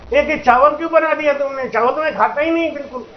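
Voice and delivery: a shameless guest complaining about food; lightly voiced fussy guest.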